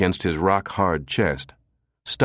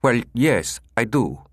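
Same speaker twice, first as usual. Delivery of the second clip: higher, sickly nasal caller; 4 semitones higher than usual. Acted. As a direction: sound a bit ill and stuffed up. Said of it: "The voice coughed sickly".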